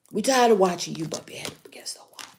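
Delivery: hushed, hurried weary complaint; mock fed-up half-whisper, trailing away; weary spirit guides. Spirit guides tired of watching the head-bumping, weary.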